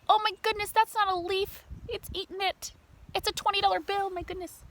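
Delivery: high amazed exclaim; high delighted oh my goodness; surprise. Real, not acted. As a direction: gasp at the funny picture. Reacting to picture surprise.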